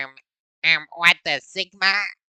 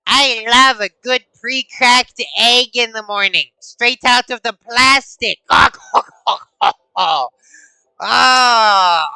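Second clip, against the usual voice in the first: high, loud hammed-up French accent; mock French accent; 6 semitones higher, 6 dB louder than usual. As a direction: ham up a silly French voice. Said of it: "it was a little bit French".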